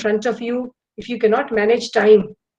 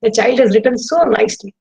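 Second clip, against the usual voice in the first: delighted teacher. Retold or imitated. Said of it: "I used to think".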